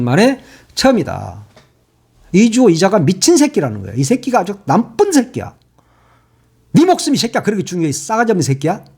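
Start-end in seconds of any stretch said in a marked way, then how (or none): 2.3-8.8 furious, spitting out insults; angry cursing rant. Real, not acted. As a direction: curse him out in real anger. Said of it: "정말 화가 나서 더 이상 내가 진짜". (분노에 찬 욕설)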